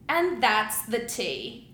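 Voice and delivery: lightly attempted British accent, drawn out slowly; a half-hearted, slow British impression; bad British accent. Quoting an actress's Instagram catchphrase, poor British accent. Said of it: "that's a bad accent".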